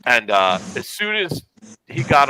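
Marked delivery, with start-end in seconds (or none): none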